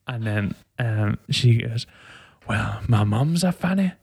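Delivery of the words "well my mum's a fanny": put-on higher, Scottish-accented mother's voice. New mum tells her husband the baby's name, in a Scottish accent. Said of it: "that's the best accent you'll get from me".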